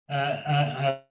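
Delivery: crying. Real, not acted. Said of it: "I'm getting a bit emotional now".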